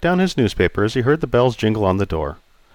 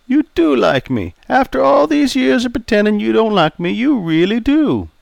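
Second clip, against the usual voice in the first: put-on raised, jovial old customer; 13 semitones higher than usual. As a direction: play Charlie, teasing.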